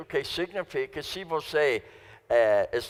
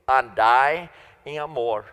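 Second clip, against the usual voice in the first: ANDAI said as a louder, falling command; firm imperative; 3 semitones lower, 5 dB louder than usual. Shown as a demonstration. Pastor commanding the congregation, andai em amor as an order. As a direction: give andai em amor as a direct order, not a suggestion.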